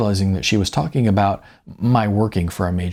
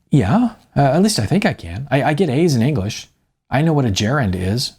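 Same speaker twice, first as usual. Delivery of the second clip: higher, hurried student voice, keen to impress; eager young student; 5 semitones higher than usual. Acted. Lisa telling the writer she can write, eager higher voice. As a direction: prove you're good enough, a little anxious.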